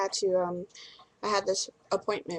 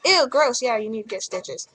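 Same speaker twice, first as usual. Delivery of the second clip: mock disgusted nurse; 2 semitones higher than usual. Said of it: "But they didn't say, "Ew, gross".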